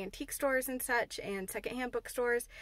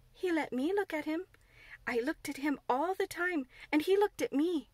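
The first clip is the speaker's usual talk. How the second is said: Mary; 5 semitones higher than usual. Acted. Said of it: "said Mary".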